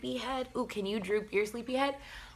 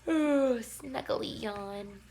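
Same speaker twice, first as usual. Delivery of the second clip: snuggly; slower than usual. Shown as a demonstration. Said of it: "get snuggled".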